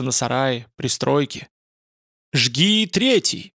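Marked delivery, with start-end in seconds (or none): 2.3-3.5 high, slow gleeful shout; bloodthirsty shout. Acted. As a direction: roar it out for blood. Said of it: "кровожадно прокричал Радша".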